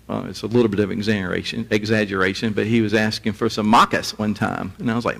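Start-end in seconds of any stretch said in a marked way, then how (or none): 3.7-4.2 "makas" for markers, no r sounds; Australian pronunciation. Retold or imitated. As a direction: say "makas" the Australian way, dropping both r's. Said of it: "I couldn't understand a word he said".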